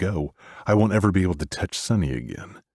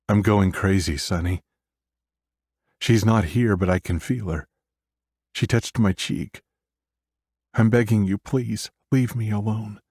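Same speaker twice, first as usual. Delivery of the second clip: desperate pleading; 5 semitones higher than usual. Acted.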